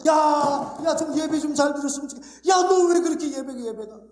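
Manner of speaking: jealous God's exasperated scolding, a near shout on 예배가; fed-up parent calling out a careless child. Acted. God rebuking his people over their worship, exasperated scolding. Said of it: "이렇게 얘기하는 거예요".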